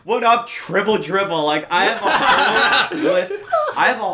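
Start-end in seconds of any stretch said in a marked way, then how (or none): 0.0-1.4 higher-pitched playful greeting; calling across hallway. Retold or imitated. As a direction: greet a teacher with a cheeky nickname call. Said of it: "I'll be across the hallway".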